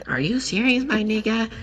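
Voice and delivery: high-pitched disbelieving question; mock squeak of disbelief; incredulous. Teacher answering the principal, high incredulous question.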